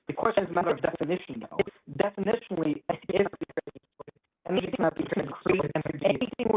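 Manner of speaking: breaking up over a phone on speaker; cutting in and out on a cell phone speaker; choppy speakerphone. Real, not acted. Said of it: "you're breaking up like crazy".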